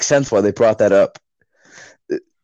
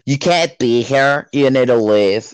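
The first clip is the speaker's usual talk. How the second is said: slow, drawn-out stereotype complaint; mock scolding wife; slower than usual. Wife ordering teens off the road, mock scolding. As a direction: imitate a neighbour laying down the law.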